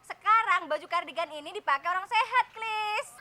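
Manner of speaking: laughing protest. Real, not acted.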